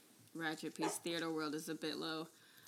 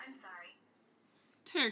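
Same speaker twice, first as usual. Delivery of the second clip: whispering; 4 semitones higher, 3 dB louder, much slower than usual. Real, not acted. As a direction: breathe it as an aside. Co-host whispers an apology aside.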